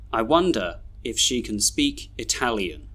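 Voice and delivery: "can" reduced to kun; measured model reading with weak "can"; schwa weak forms. Shown as a demonstration. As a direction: end "wonder" on a weak uh. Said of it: "read all these sentences with their schwas".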